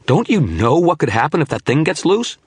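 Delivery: high, urgent alarm. A narrator's reading. Wizard warning the shadow about the loose demon, alarmed. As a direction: warn him, alarmed and pressing.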